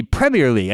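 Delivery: "Premier" said PREM-ier, stress on the first syllable; "Premier" with the weight on its first syllable; British stress. Shown as a demonstration. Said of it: "emphasis is on the other syllable".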